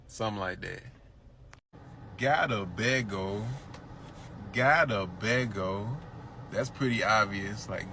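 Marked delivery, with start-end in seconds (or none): 2.2-6.0 Nigerian Pidgin. Retold or imitated. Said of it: "Pidgin phrase demo".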